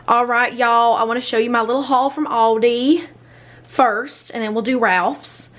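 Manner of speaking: playful put-on "y'all" accent; put-on drawling accent. Vlogger introducing her grocery haul, put-on drawling accent. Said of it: "I don't know why I'm using this accent".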